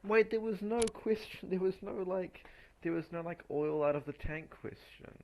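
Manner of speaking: loud, high exasperated complaint; frustrated outburst. Real, not acted. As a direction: rant at the exam in disbelief. Upset the studied question missing.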